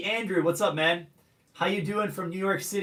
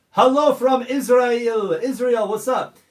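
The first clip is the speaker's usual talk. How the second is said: loud, slow, higher hello; drawn-out greeting; 5 semitones higher, 8 dB louder, slower than usual. Real, not acted. Reading live chat shout-outs.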